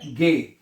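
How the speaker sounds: गे with hard g and long "ay"; German letter G. Shown as a demonstration. Teacher answers own question for students, clearly pronounced. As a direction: say गे as "gay", not "jee". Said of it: "जी को आपने गे पढ़ना है".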